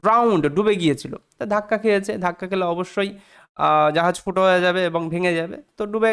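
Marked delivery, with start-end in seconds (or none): 0.0-0.5 Drowned as one syllable, "drownd"; silent E, sounded D. Shown as a demonstration. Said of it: "ডি এর উচ্চারণ হবে".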